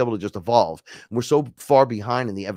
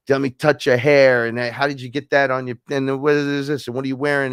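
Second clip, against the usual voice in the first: eager, higher-pitched babble of questions; overexcited curiosity; 5 semitones higher, 6 dB louder than usual. Retold or imitated. Newcomer pestering a robed being with questions, overexcited. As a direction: tumble from one question into the next, raised voice.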